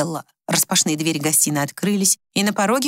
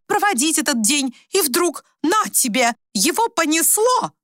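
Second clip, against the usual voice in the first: indignant wife; 9 semitones higher than usual. A narrator's reading. Wife complains hysterically to her daughter about her husband. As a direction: rant as the wronged party.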